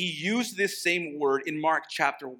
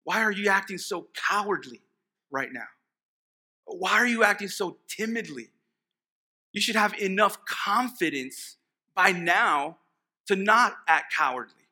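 louder, raised stern rebuke; stern Jesus; 5 semitones higher, 4 dB louder than usual. Acted. Jesus rebuking his disciples for cowardice, stern. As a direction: scold the disciples firmly. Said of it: "Jesus responds with the question".

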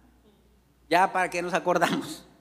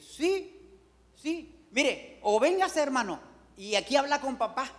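put-on higher, friendly young voice; mechanic's son; 4 semitones higher than usual. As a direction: lightly voice the eager son. (imitando al hijo del mecánico)

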